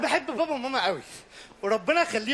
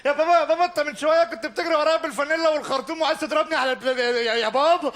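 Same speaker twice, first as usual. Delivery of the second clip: pleading yell. Acted. Kid pleads at door.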